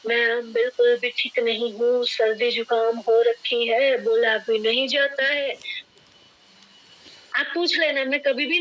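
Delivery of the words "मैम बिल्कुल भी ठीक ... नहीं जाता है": mock under-the-weather complaint, dragged out evenly; imitating sick person. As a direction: play up feeling poorly, lightly hammed-up. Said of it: "किसी की तबीयत खराब होती है ना". (बीमार होने की हल्की नकल)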